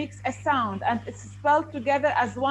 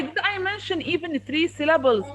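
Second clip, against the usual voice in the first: loud, disbelieving teacher questions; indignant questioning of a pupil; incredulous rebuke; 3 dB louder than usual. Real, not acted. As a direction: challenge the wrong answer, voice raised. Teacher rebukes a wrong answer.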